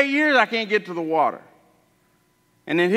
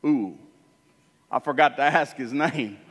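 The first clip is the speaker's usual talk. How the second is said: lower, softer, embarrassed realization; sheepish oops; a touch of sheepish sorry; sheepish answer; 5 semitones lower, 4 dB quieter than usual. Acted. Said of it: "And he goes".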